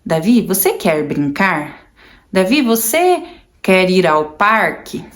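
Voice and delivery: put-on slow, deliberate words for a child; slow teaching voice. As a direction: spell each short phrase out slowly to him. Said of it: "É". (mãe ensinando o filho autista, fala lenta e pausada)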